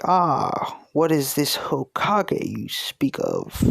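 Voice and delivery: curious elder with a touch of British; slight British accent. Acted. Pirate asks the boy about Hokage, slight British accent. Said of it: "giving him a slight, slight, like, British accent".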